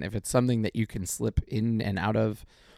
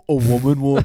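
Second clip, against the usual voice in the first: mock sassy voice; 4 semitones higher, 10 dB louder than usual. Mock redo of phrase.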